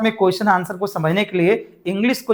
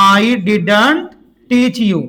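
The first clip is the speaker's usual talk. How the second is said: slow repeat; much slower than usual. Shown as a demonstration. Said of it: "फिर से बोलो".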